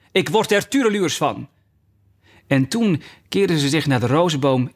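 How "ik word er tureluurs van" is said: high-pitched royal exasperation; exasperated cry. A narrator's reading. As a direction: complain crossly, pitched up. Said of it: "schreeuwde de koningin". (geërgerde uitroep op hoge toon)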